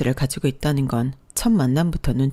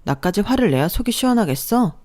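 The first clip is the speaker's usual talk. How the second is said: held-back anger. Acted. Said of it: "분노를 겨우 눌러 참고 경고하듯".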